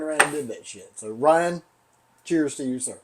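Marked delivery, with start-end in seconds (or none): none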